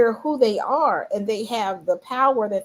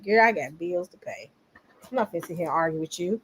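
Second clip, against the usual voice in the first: dismissive; 4 semitones lower, 5 dB quieter than usual. Retold or imitated. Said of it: "black folks be like".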